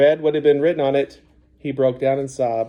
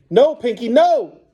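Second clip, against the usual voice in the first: much higher, louder desperate cry; screaming; 10 semitones higher, 5 dB louder, slower than usual. A narrator's reading. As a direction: scream at the dog to stop. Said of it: "Gerard screamed".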